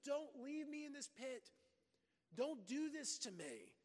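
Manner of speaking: a retold plea from the pit, mildly hammed up; mock pleading scream. Joseph begging his brothers from the pit, mock desperate. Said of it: "He's screaming with".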